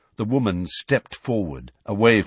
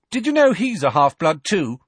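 a touch of reckless taunt, raised; 8 semitones higher, 6 dB louder than usual. A narrator's reading. Harry taunting Bellatrix, lightly reckless raised voice. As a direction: lob it at her, daring. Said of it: "said Harry recklessly".

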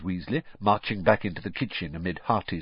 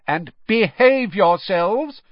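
slow, louder call; calling after; 11 semitones higher, 8 dB louder, slower than usual. A narrator's reading. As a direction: call after them slowly. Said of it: "she called after the twins".

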